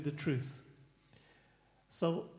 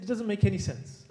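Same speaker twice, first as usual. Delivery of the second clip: put-on louder, firm rebuke to the lying boy; firm telling-off; 4 semitones higher, 7 dB louder than usual. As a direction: press the boy hard, voice raised. Teacher confronting lying pupil.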